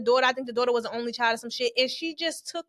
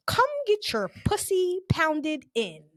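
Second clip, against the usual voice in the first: mock crude text; 4 semitones higher, much slower than usual. Quoting delivery guy's text.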